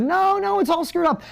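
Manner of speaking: hammed-up high wail of defeat; mock panic. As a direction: play the entrepreneur losing it, voice way up. Mimics entrepreneur's collapse of confidence.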